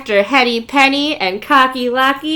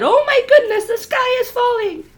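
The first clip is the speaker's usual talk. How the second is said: alarmed chick; 11 semitones higher than usual. Retold or imitated. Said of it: "after Chicken Little said".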